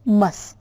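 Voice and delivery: "mus" said alone as the second syllable; last piece of famous, "mus", set apart; isolated syllable. Shown as a demonstration. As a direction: sound out "mus" on its own. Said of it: "and the second sound is".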